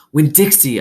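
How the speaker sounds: sharp call. A narrator's reading. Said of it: "I hissed".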